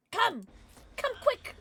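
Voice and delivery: high urgent call; high excited calling out. Real, not acted. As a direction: call them over quick.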